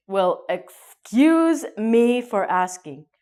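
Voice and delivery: slow, sarcastic excuse me; a hurt, sarcastic comeback; offended retort. Shown as a demonstration. Offended reply to rude answer.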